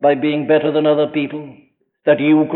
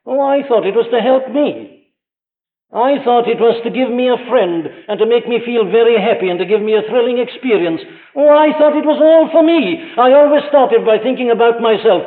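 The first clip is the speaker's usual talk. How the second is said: mock self-centred believer; 5 semitones higher than usual. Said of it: "says someone".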